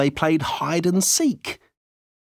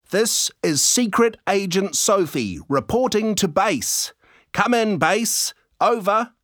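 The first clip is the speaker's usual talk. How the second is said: high, eager kid playing spy; pretend secret agent; 9 semitones higher than usual. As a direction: report in like a proud little agent. Girl playing secret agent on radio.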